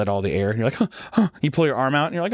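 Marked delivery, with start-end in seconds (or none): 0.7-1.3 higher, panicky acted breaths; imitated hyperventilating gasps. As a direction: gasp as if short of air. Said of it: "I'd start hyperventilating".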